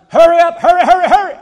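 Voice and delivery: hammed-up pleading to speed it up; mock impatient prayer. Tired pregnant woman begging God to hurry, loud and laughing. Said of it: "women all over this city that have said".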